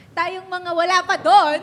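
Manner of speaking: laughing. Real, not acted. Laughing self-deprecation.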